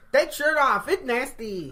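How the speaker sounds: put-on loud, high Asian-accented scolding; ornery mock Asian accent. Hospital staffer scolding patient over lunch, mock Asian accent. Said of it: "she is ornery as hell".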